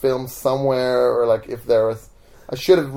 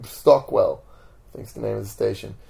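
normal talking voice

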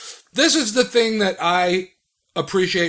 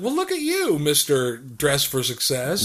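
mock impressed; 3 semitones lower, 3 dB quieter than usual. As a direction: tease with exaggerated admiration, pitched up at first. Retells own teasing thought.

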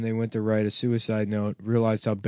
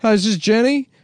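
sleazy caller; 6 semitones higher, 4 dB louder than usual. Retold or imitated. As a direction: lay on the sleazy phone charm.

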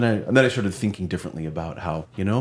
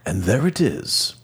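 nature documentary; 3 semitones higher than usual. Pretend. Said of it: "like some kind of British, nature documentary voiceover".

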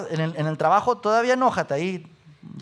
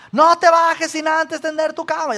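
higher, louder mock yell from mom; 8 semitones higher, 5 dB louder than usual. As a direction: play a mom scolding from downstairs. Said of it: "mi mamá me grita".

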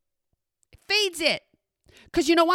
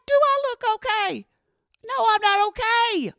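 very high, hammed-up wail; distraught retort; 10 semitones higher than usual. Retorts in tears to the technician.

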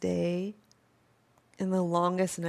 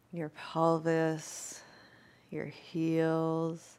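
airy breathy mystical healer; 3 dB quieter than usual. Acted. Yoga teacher guiding deep relaxation.

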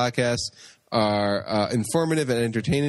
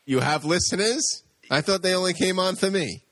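lightly voiced cocky jock, a bit higher; Flash; 6 semitones higher than usual. Flash teasing the hosts about their listeners, lightly voiced. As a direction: brag it with mock surprise. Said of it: "Flash, get over here".

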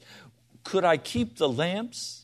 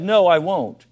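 louder, firm refusal; blunt refusal; 3 semitones higher, 6 dB louder than usual. Shown as a demonstration. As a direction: say it straight out, no cushioning. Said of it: "let's put it a little more softly".

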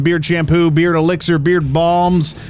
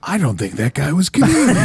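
imagined doubtful dude. Retold or imitated. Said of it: "on the way home he was like".

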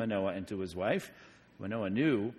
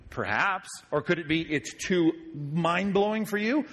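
ordinary delivery

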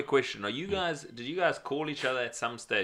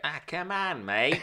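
put-on Australian accent; 4 semitones higher, slower than usual. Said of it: "Then you hear him be like".

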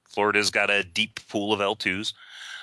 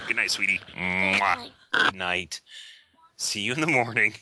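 tucking in at bedtime. Real, not acted. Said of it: "Daughter is saying goodnight".

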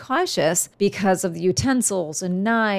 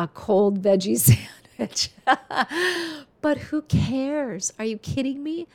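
laughing it off, pitched up; 5 semitones higher than usual. Real, not acted. Mother laughing that her cold sandwich got heated. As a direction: laugh through the words, delighted.

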